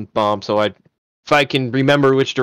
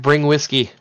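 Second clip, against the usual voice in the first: yelling back; 2 semitones higher than usual. Acted. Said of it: "I yell back".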